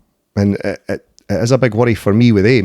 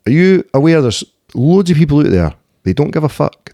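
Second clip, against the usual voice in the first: stern dad warning; 6 semitones higher, 5 dB louder than usual. Retold or imitated. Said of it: "I'm like".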